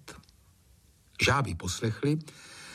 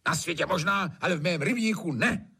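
high, curt retort; snapped retort; 8 semitones higher than usual. A narrator's reading. Trautenberg snapping at the gamekeeper. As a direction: snap back at him. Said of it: "odsekl Trautenberg".

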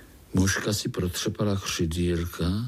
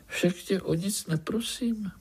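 defiant; 7 semitones higher than usual. Acted. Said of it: "odpověděla Zlatuška vzdorovitě".

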